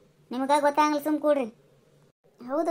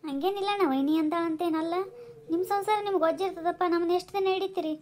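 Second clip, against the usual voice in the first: tearful; 5 semitones higher than usual. Acted. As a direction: hold back tears while refusing the money. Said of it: "ಈಗ ಅಳ್ಬೇಡ". (ಕಣ್ಣೀರಿನ ಮೃದು ದನಿ)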